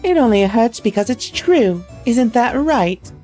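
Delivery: lightly voiced haughty girl in a posh English accent; mocking her governess in a posh English accent. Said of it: "I don't need to do the accent anymore".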